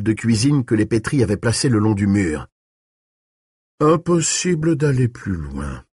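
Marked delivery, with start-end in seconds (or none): 3.8-5.8 high, mock-regretful lilt; feigned sorrow. A narrator's reading. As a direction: pretend to be sorry for him. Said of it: "avec une désolation feinte".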